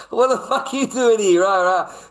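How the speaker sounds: high, loud mock rant; raving lunatic. Streamer caught mid-rant by his mother-in-law, raving loudly. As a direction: rant at full tilt like a lunatic. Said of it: "I'm supposed to be this raving lunatic".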